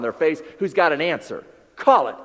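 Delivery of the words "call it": commanding call to action. Acted. Urging audience to call company.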